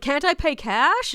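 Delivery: slow, high-pitched question; pushy stranger. Retold or imitated. Stranger asking the guide about tickets, pushy. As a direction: imitate a pushy man, drawing it out. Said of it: "And he's like".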